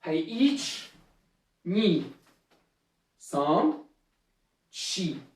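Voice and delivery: low count with shorter gaps between numbers. Shown as a demonstration. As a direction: keep the called numbers moving briskly. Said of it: "Hey, un peu plus vite".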